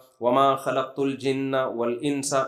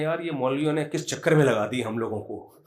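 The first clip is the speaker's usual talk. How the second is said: laughing mockery; 2 semitones lower than usual. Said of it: "وہ ہنسنے لگے افطاری میں".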